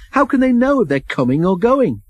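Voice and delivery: high-pitched, indignant query; incredulous objection; scornful question. A narrator's reading. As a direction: pour scorn on the idea, pitch up. James scornfully objecting to diesels.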